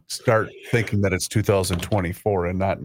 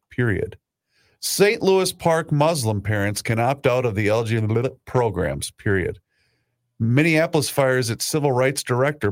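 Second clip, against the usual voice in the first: reading back. Shown as a demonstration. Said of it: "Read me the other ones".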